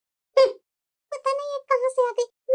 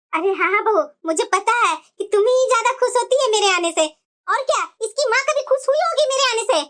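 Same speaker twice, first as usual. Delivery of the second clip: lower, sharp-tongued granny voice; old grandmother; 3 semitones lower than usual. Acted. Grandmother talking to her daughter-in-law, low and sharp. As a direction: play a scolding old grandmother.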